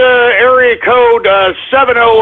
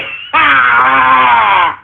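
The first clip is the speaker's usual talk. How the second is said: drawn-out groan. Real, not acted. Loudly protesting he is friendly.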